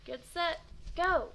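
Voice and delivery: high, very loud start call; starting shout. Acted. Bump finally starts the race, shouting. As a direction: fire off the go like a starting gun.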